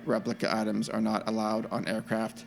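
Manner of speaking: flat robot reading voice. Shown as a demonstration. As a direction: read it like a robot. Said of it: "I'm gonna read it in a robot voice".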